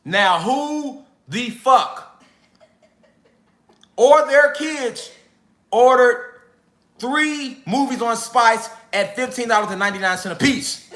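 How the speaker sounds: slow, heavy interrogation; stern granddad. Retold or imitated. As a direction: drag each word out like a stern grandfather. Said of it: "He was like".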